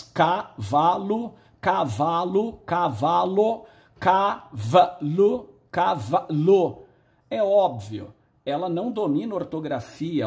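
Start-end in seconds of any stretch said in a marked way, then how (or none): 0.0-3.6 drawn-out demo word. Shown as a demonstration. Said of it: "pode ser escrita de várias formas". 4.0-6.8 drawn-out demo word. Shown as a demonstration. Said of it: "pode ser escrita de várias formas".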